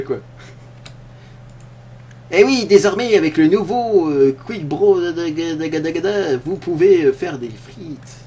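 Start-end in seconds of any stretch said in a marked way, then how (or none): 2.3-8.2 infomercial. Acted. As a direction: sell it like a TV shopping host. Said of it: "une parodie de, de téléachat".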